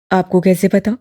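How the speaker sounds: lightly voiced young man, surprised; wondering young man. A narrator's reading. Duran surprised question.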